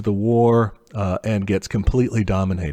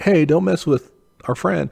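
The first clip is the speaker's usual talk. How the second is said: higher, bristling warning to back off; protective ally; 8 semitones higher than usual. Retold or imitated. Southern German states warn France off their ally. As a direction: warn them off the friend with a raised pitch. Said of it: "the southern states would be like".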